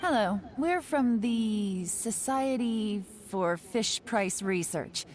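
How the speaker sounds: mock official researcher. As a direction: put on a stiff official act. Posing as a survey researcher.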